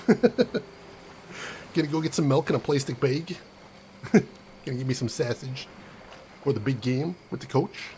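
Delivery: hammed-up Chicago local; Chicago accent. Shown as a demonstration. Streamer stringing the tips together for laughs, Chicago accent. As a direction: play a Chicagoan heading out before the game. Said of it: "to do a Chicago accent".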